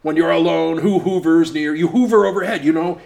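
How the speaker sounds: singing the lyric as hoover, oo long; mock hoover lyric. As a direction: boss sings hoovers near instead of hovers. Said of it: "started doing this bird thing".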